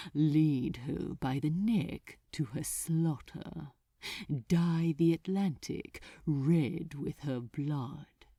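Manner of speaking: low, savoring demon voice; relishing archdemon. Acted. Archdemon elaborating the order, low and relishing. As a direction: roll each cruel word around.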